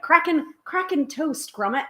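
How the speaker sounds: Wallace. Acted. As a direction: attempt a British character, not very well. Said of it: "I can't really do Wallace and Gromit".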